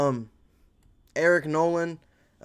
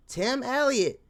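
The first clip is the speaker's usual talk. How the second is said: said much higher, squeaky and hyped; hyped high name; 10 semitones higher, slower than usual. Pretend. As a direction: shout his name up high like a fan. High hyped name, then plain.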